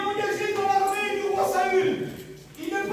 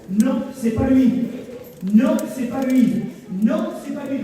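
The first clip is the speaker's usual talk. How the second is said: voice of God; 4 semitones lower, 4 dB louder than usual. Acted. God's voice in retold story.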